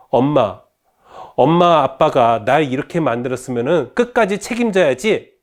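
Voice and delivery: acted huffy retort; angry daughter. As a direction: throw the blame back at mom. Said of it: "딸도 화가 났나 봅니다".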